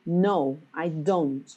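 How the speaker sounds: "No" and "don't" each emphasized; deliberate answer stressing "No" and "don't". Shown as a demonstration. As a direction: lean on "No", pause, then stress "don't". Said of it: "this is the emphasis that we put".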